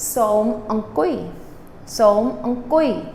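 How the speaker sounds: Som ong kui said slowly with kui falling; polite sit down. Shown as a demonstration. Teacher politely tells students to sit, slow careful pronunciation. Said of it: "So I would say to my students".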